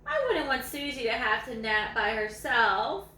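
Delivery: lively read-aloud voice, savouring each line; story reading. A narrator's reading. Reading a dog's story to viewers, lively read-aloud.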